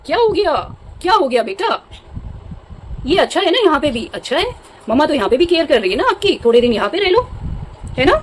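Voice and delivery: high, sing-song coaxing of a pet; mother cooing to her upset pet bird. Real, not acted.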